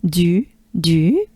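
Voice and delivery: "Du" with rounded droopy lips; French "du" with pouted lips. Shown as a demonstration. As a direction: drop the jaw and round the lips on "Du". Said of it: "U, droopy face".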